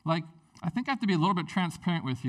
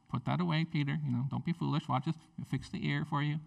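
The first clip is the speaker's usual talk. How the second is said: softly spoken mild correction; gentle rebuke; 5 dB quieter, faster than usual. Acted. Jesus telling Peter to put the sword away, gently. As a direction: chide softly, without any edge. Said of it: "He just gently said".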